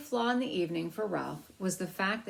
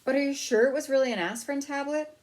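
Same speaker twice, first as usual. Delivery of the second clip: high, louder anxious mother voice; a fussing mother's higher voice; worried mother; 9 semitones higher, 7 dB louder than usual. Acted. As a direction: fret like a worried mouse mother.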